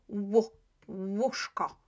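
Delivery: "W, łóżko" slowly, sound then word; pronunciation demo. Shown as a demonstration. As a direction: draw out the w-oo opening of "łóżko". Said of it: "with accent u".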